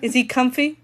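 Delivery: low, hushed mock lament; quiet, pitying pretend sorrow; mock solemn. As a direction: mourn gravely, playing it for laughs.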